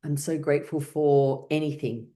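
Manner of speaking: gratitude. Shown as a demonstration. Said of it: "a little bit of optimism".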